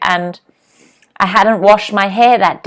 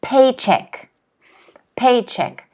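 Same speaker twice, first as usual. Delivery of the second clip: "Paycheck" stressed on PAY; slow clear PAYcheck; model word; 3 semitones higher, slower than usual. Shown as a demonstration. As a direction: say PAYcheck for the class to repeat. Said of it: "Can everyone say this at home?".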